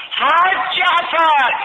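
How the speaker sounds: long, high, loud call across the fire; slow drawn-out shout of a name. Retold or imitated. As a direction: call out the name to someone far away. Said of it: "باز تکرار کردم حرفمو".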